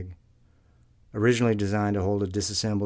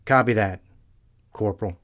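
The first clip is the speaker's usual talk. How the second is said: cheerful chirp; 7 dB louder than usual. A narrator's reading. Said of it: "as he chirps back cheerfully".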